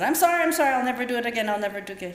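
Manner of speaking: high, loud pleading that drops away; gasping apology. Retold or imitated. Child sobbing sorry to her stern father. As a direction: beg like a guilty child. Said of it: "I just gasped and said".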